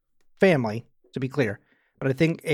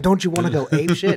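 meme quote; 4 semitones higher, 4 dB louder than usual. Retold or imitated. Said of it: "very common meme joke thing".

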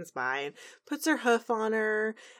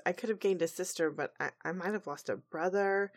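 sad quote; 5 dB quieter than usual. Retold or imitated. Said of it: "really sad".

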